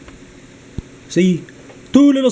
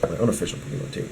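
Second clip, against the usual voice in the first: hushed muttered correction, much softer; whispered aside; 10 semitones lower, 8 dB quieter, faster than usual. Real, not acted. Whispering a sheepish correction to his viewers. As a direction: breathe the correction like a secret aside.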